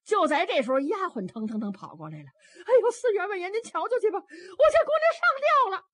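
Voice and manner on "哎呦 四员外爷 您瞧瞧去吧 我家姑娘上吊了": much higher, louder panicked cry with a laugh in it; a maid rushing in to report a hanging. Acted. 丫鬟慌张跑来报信. (丫鬟惊慌失措的尖声报信)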